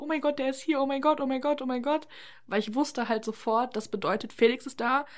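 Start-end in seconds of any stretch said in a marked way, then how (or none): 0.0-2.1 hyped. Retold or imitated. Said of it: "ich war so total hyped".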